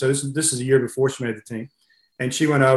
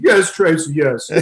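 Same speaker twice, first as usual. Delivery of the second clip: imitated Russian coach; 3 semitones higher, slower than usual. Coach answering a corrected name with another wrong one, imitated insistence. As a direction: brush off the correction as the coach would. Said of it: "he goes".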